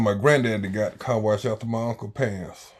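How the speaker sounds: ordinary delivery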